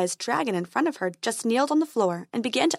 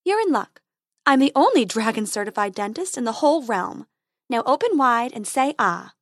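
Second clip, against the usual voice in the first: fairy voice; 3 dB louder than usual. Acted.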